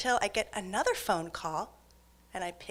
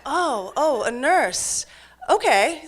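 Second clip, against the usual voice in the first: oh, a nurse, okay, with a laugh; mock it with a laugh, loud and high; scornful laughing okay; sarcastic disbelief; 6 semitones higher, 9 dB louder, slower than usual. Mocking his nurse excuse.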